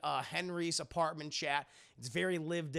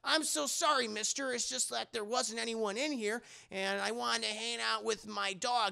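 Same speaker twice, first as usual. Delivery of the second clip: higher, lightly voiced little girl; 5 semitones higher than usual. Punky warning Henry about her dog, lightly childlike. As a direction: play a sassy little girl. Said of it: "She's like".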